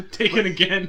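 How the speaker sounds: loud, slow, through laughter; laughing joke. Real, not acted. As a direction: crack up while delivering the joke title. Joking sequel title amid group laughter.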